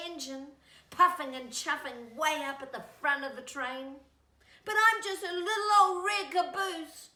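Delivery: high, loud, wistful little caboose voice; sad little caboose. Acted. Little caboose wishing kids would wave at it, high and wistful. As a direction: pine for the front of the train.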